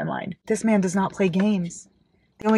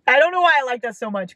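higher, quick burst; giddy gushing; 6 semitones higher, faster than usual. Real, not acted. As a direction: gush it out in a rush. Gushing over favorite quote.

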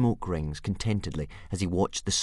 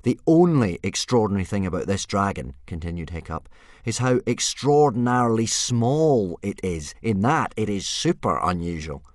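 put-on frustrated boy; 4 semitones higher, 7 dB louder than usual. Hiccup voiced in story.

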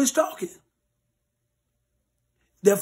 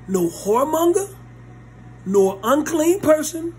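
high, loud, slow scripture; forceful scripture reading; 7 semitones higher, 3 dB louder, slower than usual. Acted. Preacher reading scripture to the church, forceful. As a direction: pronounce the verse with weight.

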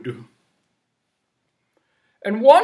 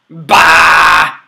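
loud bleated baa; sheep bleat; 3 semitones lower, 11 dB louder than usual. Acted.

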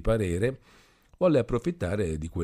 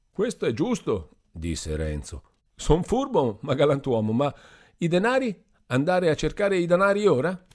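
put-on drunken Renzo; 9 semitones higher, 5 dB louder than usual. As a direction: drag it out like a happy drunk. Drunk Renzo about money.

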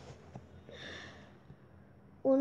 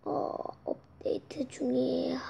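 whisper; 2 semitones lower, 8 dB quieter than usual. Real, not acted. Whispered update note.

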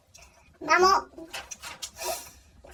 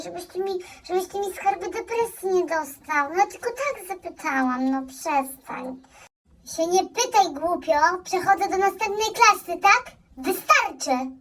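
doting mother. Acted. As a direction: fuss over him like a baby. Mother fawning over son.

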